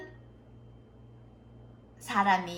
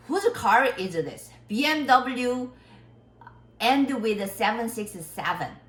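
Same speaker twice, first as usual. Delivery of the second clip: slow, louder announcement, word by word; imitating a teacher looking for a car's owner; teacher calling out; 4 semitones higher, 6 dB louder, much slower than usual. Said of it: "선생님이 나왔어요". (차 주인을 찾는 선생님처럼 크고 느리게 외치듯)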